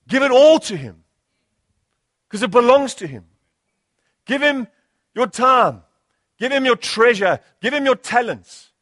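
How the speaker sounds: rousing, insistent sermon appeal; urgent pulpit exhortation; impassioned preaching. Real, not acted. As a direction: preach it as a building list, hitting each item. Preacher builds a rousing list of appeals.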